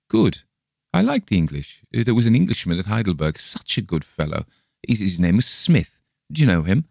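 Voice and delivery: chatty, eager traveller introducing himself; a hint of a cheerful German brewer; Bergheim the German brewer.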